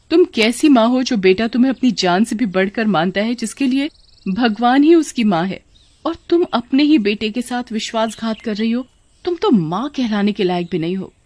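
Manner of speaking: indignant wife confronting mother-in-law; a heated, emphatic reproach; accusing daughter-in-law. Acted. (सास को खरी-खोटी सुनाती बहू)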